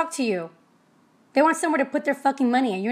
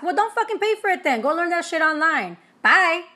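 sassy brush-off, higher pitched; dismissive scoff; 4 semitones higher than usual. Real, not acted. Brushing off clients who won't pay, sassy and dismissive. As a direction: wave them off with attitude.

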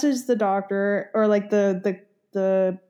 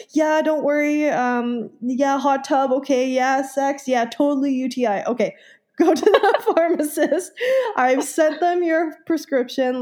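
a lightly voiced, higher, casual doctor with laughs; breezy doctor; 4 semitones higher than usual. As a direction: rattle it off like an offhand doctor.

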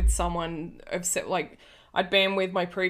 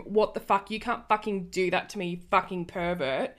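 ordinary delivery

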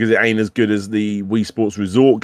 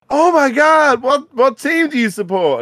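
put-on very high, louder gushing American kid; American accent; 4 dB louder than usual. American kid quizzing British tourists on football, high mock American accent. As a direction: squeal it in a hammed-up American accent. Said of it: "This is my American accent".

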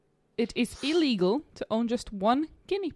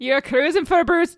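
higher, louder botched Geordie that drifts Scottish; attempted Geordie, sounding Scottish; 6 semitones higher, 5 dB louder than usual. Shown as a demonstration. Player attempting the accent challenge, Scottish-sounding Geordie. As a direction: try Geordie and land in Scottish. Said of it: "That's just Scottish".

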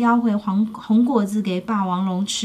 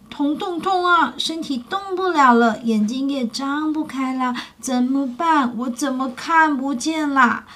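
sad and hurting; 3 semitones higher than usual. Acted. Injured T-rex tells the little pterosaur of his pain, mildly sad. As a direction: sound like an injured creature feeling sorry for itself. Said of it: "霸王龙很伤心地说".

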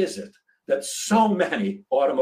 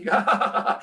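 mock laugh; 9 semitones higher than usual. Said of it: "he laughed".

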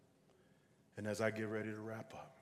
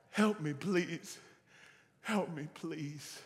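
slow, drawn-out plea; worn-down pleading; 4 semitones higher, 5 dB louder, slower than usual. Acted. Dangling man begging the voice for help, slow pleading. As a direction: beg with the shout gone out of it.

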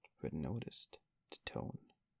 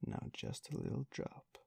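coaxing, pitched higher; pressing the beadle with a higher wheedle; persuasive; 7 semitones higher than usual. A narrator's reading. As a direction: lift the coax up into a wheedle. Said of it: "said Miss Mann persuasively".

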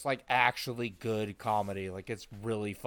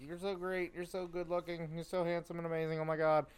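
mock gushing; 4 semitones higher, 4 dB quieter than usual. Imitating gushing flattery to recruit.

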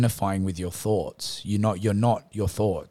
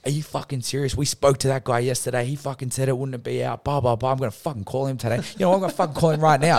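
higher, mock-indignant rant, speeding up at the end; ranting ego; 3 semitones higher than usual. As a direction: imitate an outraged ego working itself up. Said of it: "Instantly my ego goes".

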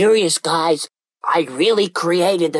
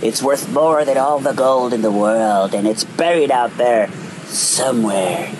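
rough commanding pirate captain; 4 semitones lower than usual. Acted. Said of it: "rough and commanding voice as he yelled".

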